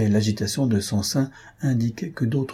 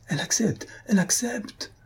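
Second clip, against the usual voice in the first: high-pitched jubilant cry, building higher; exultant cry; 11 semitones higher, 4 dB quieter than usual. A narrator's reading. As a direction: cut in, crying out in triumph. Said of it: "d'une voix éclatante". (cri de joie aigu)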